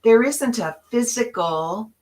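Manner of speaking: "there" pressed, voice rising; emphatic point. Shown as a demonstration. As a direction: stress on there, rising at the end. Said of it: "and this is the key".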